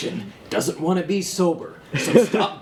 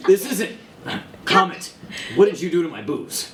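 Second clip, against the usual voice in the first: put-on louder, slurred drunken outrage; blackout drunk; 4 semitones higher, 3 dB louder than usual. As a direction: demand it like a drunk captain. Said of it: "I'm so hammered right now".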